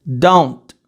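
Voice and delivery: low, loud "don't" ending on t; true English pronunciation. Shown as a demonstration. Teacher close to the microphone, "don't" with no final vowel. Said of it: "Bem perto do microfone".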